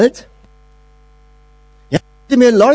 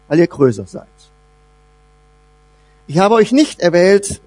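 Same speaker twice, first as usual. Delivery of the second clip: God speaking tenderly; 8 semitones lower than usual. Acted. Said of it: "Da sagt Gott seinem verdutzten Volk".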